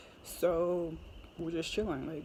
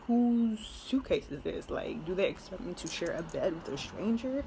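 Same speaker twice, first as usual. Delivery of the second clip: retold confusion. Telling viewers about finding a stranger's suitcase, mildly confused. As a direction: act out baffled disbelief, lightly. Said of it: "I was so confused".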